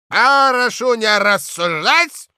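put-on slow, high, loud old man's command; old director barking from the next room, old man's voice. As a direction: creak it out like a tipsy old boss. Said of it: "старческий голос".

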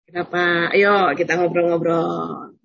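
a patient mother inviting her shy daughter to chat; gentle coaxing mother. Retold or imitated. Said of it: "bunda juga".

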